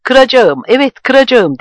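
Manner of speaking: high, loud, teeth-gritted fury; through gritted teeth. Acted. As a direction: force the threat out through clenched teeth. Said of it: "dedi dişlerinin arasından". (dişlerinin arasından, öfkeyle)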